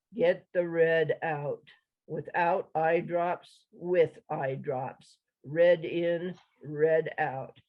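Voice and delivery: slow, lugubrious monotone; droning pitchman. Acted. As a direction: drone the ad like a bored spokesman. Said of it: "his spiel droned".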